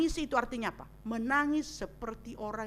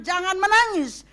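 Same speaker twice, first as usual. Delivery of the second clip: Jesus comforting; 6 semitones higher, 9 dB louder than usual. Retold or imitated. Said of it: "Itu yang dikatakan".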